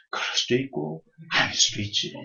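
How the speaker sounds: soft, quiet sage voice, untroubled; a serene old man shrugging it off; calm old sage. Acted. Sage repeats his calm refrain.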